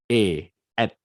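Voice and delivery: être said "E, at" like French "et"; "E, at" with the r left silent. Shown as a demonstration. Teacher shows students how être sounds. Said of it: "tulisannya at".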